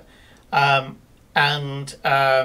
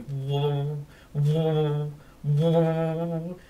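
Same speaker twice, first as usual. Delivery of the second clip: humming cane noise; 3 dB quieter, much slower than usual. Acted. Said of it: "the top of the cane starts going".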